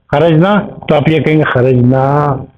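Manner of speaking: खरजना with the long a drawn out slowly; stretched vowels. Shown as a demonstration. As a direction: draw out the a in खरजना. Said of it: "अलिफ को थोड़ा सा खींचेंगे दो second तक".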